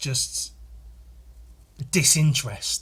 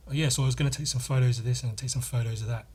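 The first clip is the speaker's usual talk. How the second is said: fast, put-on voice of the college friend; mimicking college friend; faster than usual. Mimicking a college friend who always says photos, fast. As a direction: rattle it off like the English photo guy. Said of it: "he'd always call them photos".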